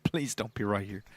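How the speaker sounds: quiet, low nervous plea; pleading player. Retold or imitated. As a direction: mutter it like a worried player. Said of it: "He's like".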